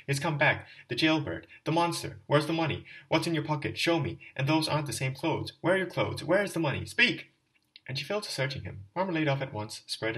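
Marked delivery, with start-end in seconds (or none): 0.1-7.3 loud, high, furious tirade; wife screaming at her drunk husband, frenzied fury; frenzied scolding. Acted. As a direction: tear into the drunk husband, rising to a shriek. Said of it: "she cried in a frenzy".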